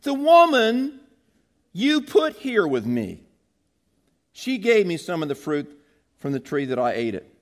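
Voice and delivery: high, loud whiny Adam passing the blame; Adam blaming. Retold or imitated. Preacher voices Adam shifting the blame onto the woman, high and whiny. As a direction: whine it like a guilty man pointing the finger. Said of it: "The man said".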